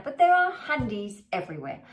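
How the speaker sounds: lightly played-up Aussie accent; Australian accent. Shown as a demonstration. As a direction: say it with a bit of Australian twang. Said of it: "I'm putting on my Australian accent for you right now".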